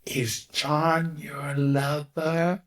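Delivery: slow, high, giggling through the words; mother's laughing question. Retold or imitated. Son retelling mother's question, slow and laughing. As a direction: ask it half laughing in disbelief. Mother asks at crowded table.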